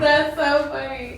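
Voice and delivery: laughing while talking; amused, words through a laugh. Real, not acted. Laughing at the call.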